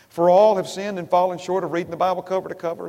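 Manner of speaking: quick mock-earnest wrong version, stress on all; wrong quote pushed on all; misquoted verse. Shown as a demonstration. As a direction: rattle off a fake scripture. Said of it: "Is that what it says?".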